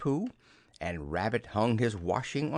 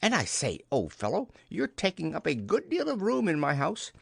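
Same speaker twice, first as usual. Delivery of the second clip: breezy character voice with a lively lilt; cheerfully practical storybook friend; chatty Rabbit; 4 semitones higher than usual. Acted. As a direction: ask the favour as if perfectly reasonable. Rabbit asks a favour chattily.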